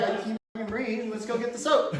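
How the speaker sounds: soft, weak mock gasp; understated pitiful whimper; feeble plea. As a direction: play it pitiful to get soap. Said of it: "I'm like".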